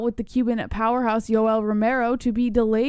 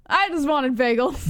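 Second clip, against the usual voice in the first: whiny mock voice. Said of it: "That's something I would have said".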